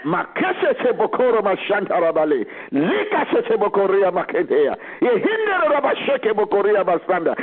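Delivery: rapid ecstatic tongues; speaking in tongues. Acted. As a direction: pray in tongues, fervently.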